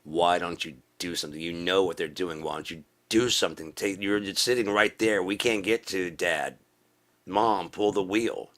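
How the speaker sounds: rising, urgent mock yell; half-yelled backseat pleading; mock screaming passengers. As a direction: build a plea to a frantic passenger's cry, stretching the last words. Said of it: "And they're screaming".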